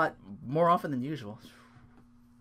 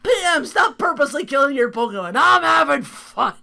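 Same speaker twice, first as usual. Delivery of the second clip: mock bossy voice; 12 semitones higher, 9 dB louder than usual. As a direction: boom it out like a pompous boss.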